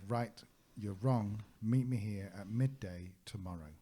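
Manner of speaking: imitating a stern host's slow summons; retold stern order. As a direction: lay down the order word by word, firmly. Retelling Igor's stern order to guests.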